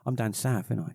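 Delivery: lightly put-on southern English accent; broad southern English, played up a touch. Shown as a demonstration. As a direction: slip into down-south English for a moment. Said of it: "Normally I sound like".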